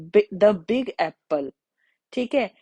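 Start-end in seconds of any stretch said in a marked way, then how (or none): 0.1-1.5 "the big apple" read very slowly, "the" said as द; slow model example. Shown as a demonstration. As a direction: spell out "the big apple" word by word at a crawl. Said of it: "जैसे यहाँ पे example दिया है". (बहुत धीमे, "the" को द बोलते हुए)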